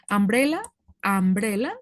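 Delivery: umbrella said the English way, starting on a vowel sound. Shown as a demonstration. Teacher shows students how to say umbrella. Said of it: "la forma de la pronunciación".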